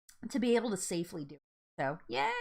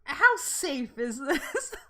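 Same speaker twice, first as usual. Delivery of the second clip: nervous rider; 5 semitones higher, 4 dB louder, much slower than usual. Retold or imitated. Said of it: "I'm like".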